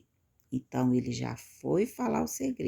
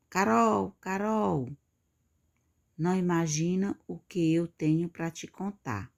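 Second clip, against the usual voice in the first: high, eager call to a friend; excited calling out; 5 semitones higher than usual. Acted. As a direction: act out calling a friend with juicy news, pitched up. Personagem chama amiga para contar segredo. (chamando a amiga, empolgada, em tom agudo)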